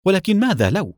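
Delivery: بإصرار وبصوت أعلى; insistent. A narrator's reading. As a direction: cut in and press the question. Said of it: "فقاطعته والدتي بإصرار".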